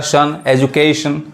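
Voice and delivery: सन stressed, then एजुकेशन said slowly; slow recap of सन in एजुकेशन; teacher isolating सन; slow model word. Shown as a demonstration. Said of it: "T I O N आ रहा है".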